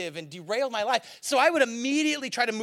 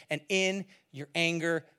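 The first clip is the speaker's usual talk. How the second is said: solemn quote; 7 semitones lower, 6 dB quieter than usual. Retold or imitated. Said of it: "And he goes".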